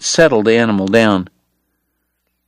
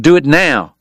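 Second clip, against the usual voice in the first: sharp order; 4 semitones higher than usual. Acted. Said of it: "he ordered".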